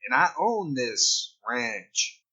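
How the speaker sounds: Irish friends mocking a Texan, in a light Texan accent; J R Ewing Texan accent. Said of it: "making fun of J R Ewing stuff".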